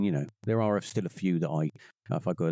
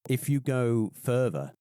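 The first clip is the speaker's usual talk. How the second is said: regional English accent. Shown as a demonstration. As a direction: stretch it out like a West Country local. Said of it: "people that talk like that".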